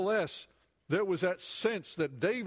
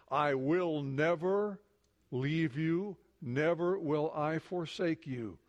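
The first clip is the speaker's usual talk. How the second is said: tender promise; slower than usual. Acted. Quoting God's promise slowly.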